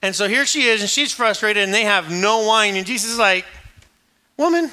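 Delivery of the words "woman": exasperated address. Acted. Jesus answers frustrated mother, acted.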